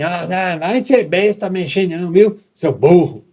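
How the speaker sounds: high, loud, insulting scold; harsh scolding mother. Retold or imitated. Mother insulting her child near the socket, harsh scold. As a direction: snap at the child like an impatient mother. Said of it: "Não pode falar assim com a criança".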